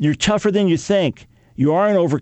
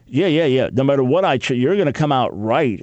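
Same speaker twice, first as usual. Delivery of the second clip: sarcastic concession. Retold or imitated. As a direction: roll your eyes and concede with sarcasm. Jeremiah mocking God's certainty.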